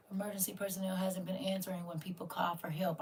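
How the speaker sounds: hushed, secretive whisper. Real, not acted. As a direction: whisper it like a warning only insiders know. Sharing alarming secret news.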